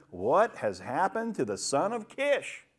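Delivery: slow, swooping question; astonished question. Acted. People who knew Saul asking one another, astonished. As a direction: draw out the bewilderment.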